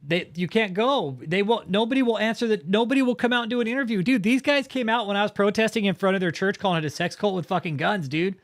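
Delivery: loud, high, fired-up outrage; heated rant. Real, not acted. Streamer to chat about armed guards, angry rant. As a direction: rail against them at full volume.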